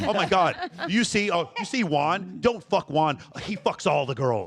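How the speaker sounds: lightly voiced gym gossip, laughing; mock gossip. Pretend hired gossip warning women about Juan. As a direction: play a gossiping gym bro, half laughing. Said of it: "hire a guy to go".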